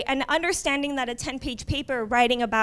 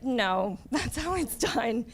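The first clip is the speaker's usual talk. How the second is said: laughing reassurance; slower than usual. Retold or imitated. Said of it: "it's like".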